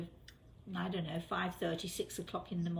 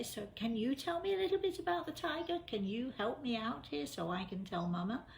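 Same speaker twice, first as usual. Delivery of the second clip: coaxing question; 5 semitones higher than usual. Retold or imitated. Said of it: "I say".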